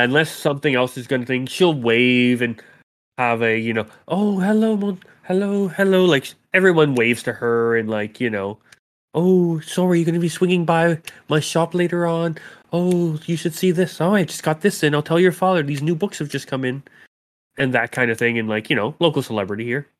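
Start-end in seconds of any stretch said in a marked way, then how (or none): 4.1-6.0 high, singsong hellos; cheery greeting. Acted. Sori waves to the townsfolk, cheery high greeting. 9.1-16.8 high, chatty villager voice; eager shopkeeper. Acted. Townsfolk call to the local celebrity, eager high voice.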